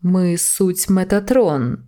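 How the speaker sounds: slow, solemn heavenly voice; voice of God. Acted. Metatron announcing himself to the angel, slow and solemn. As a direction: proclaim slowly, like a divine herald. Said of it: "Глас Божий".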